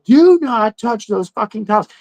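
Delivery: a retold warning, half-hearted fury; mock mad. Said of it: "like, mad".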